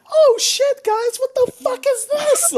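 high, loud panicked outburst; shocked yelling. Retold or imitated. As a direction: blurt it out in sudden alarm. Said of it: "I was gonna jump in and be like".

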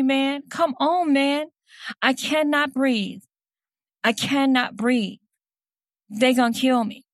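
high, pleading voice, slow on the repeated can't breathe; pleading dying words. Retold or imitated. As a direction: voice the desperate pleading of a dying man. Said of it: "to read to you, to say the words, to were his basically dying words".

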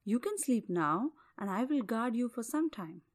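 calm him gently as a bear. Acted. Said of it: "calming words of the bear".

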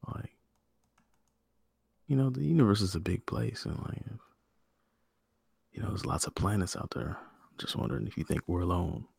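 soft, low intimate murmur, fading to a whisper; pillow talk. Pretend. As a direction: woo Nicole in bed, hushed. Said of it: "Is that how your pillow talk goes".

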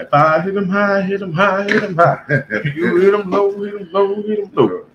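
high, chanting coach call; coach voice in head. Retold or imitated. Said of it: "I just heard that".

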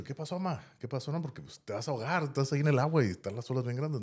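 alarmed son calling over the waves; worried calling out. Retold or imitated.

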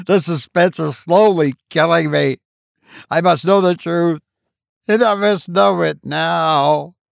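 high, urgent insistence; demanding wife. A narrator's reading. Wife confronts the physicians, high and urgent. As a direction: press the doctors for the truth.

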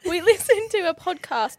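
"We listened to a podcast" back in a put-on British accent; mock British accent. Shown as a demonstration. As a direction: pick the British accent up again mid-laugh. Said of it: "oh, no, keep the accent on".

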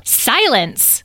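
high, sharp command; curt, scandalized hush; snapping. A narrator's reading. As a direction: cut them off with a snap. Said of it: "snapped Citrine".

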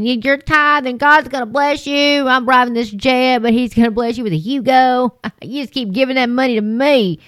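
lightly hammed-up, greedy televangelist; sly preacher asking for money, with a laugh; mock prosperity preacher. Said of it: "the Joel Osteens of the name and claim it".

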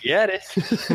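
indignant protest. Acted. Caller arguing with the bank over a best friend, mock indignant. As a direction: push back in mock indignation.

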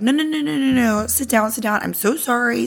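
high, pleading rush of no's, mock apologetic; imitating super apologetic. Customer begging the waitress to sit back down, mock apologetic. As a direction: play his frantic backpedal, half-mocking. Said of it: "Super apologetic".

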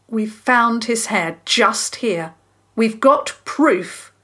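slow, loud, firm insistence; speaking strongly. Acted. Boy bluffing the dog thief, speaking strongly. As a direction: lay down the proof deliberately. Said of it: "Diggory spoke strongly".

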